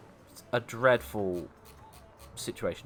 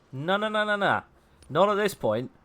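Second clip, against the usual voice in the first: hurried refusal; 8 semitones higher, 3 dB louder than usual. Real, not acted. Refusing in the game.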